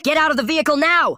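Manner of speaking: very high, loud command; shouted police order. A narrator's reading. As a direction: yell it at full urgency.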